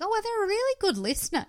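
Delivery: high fast starry-eyed parody; mock gushing. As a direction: gush naively, quickly. Mocking naive woman.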